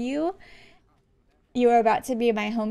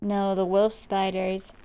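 bored worker; 2 semitones lower, slower than usual. Acted. Worker correcting kid about spiders, deadpan.

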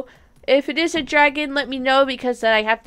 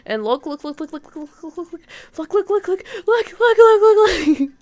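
excited look look; 6 semitones higher, 4 dB louder than usual. Real, not acted. Showing off new baby dragons.

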